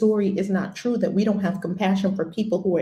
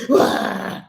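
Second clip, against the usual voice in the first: mock wail; 5 dB louder than usual. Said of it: "You're gonna have the sadness".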